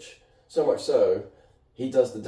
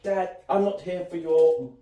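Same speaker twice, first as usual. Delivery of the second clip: slightly raised mock cat voice; pet cat's voice; 5 semitones higher than usual. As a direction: lightly voice a demanding cat talking to Dad. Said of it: "He's like".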